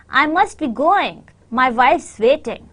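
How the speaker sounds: "going" and "wife's" stand out; stress on GOING and WIFE. Shown as a demonstration. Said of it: "your stress is on going and wife".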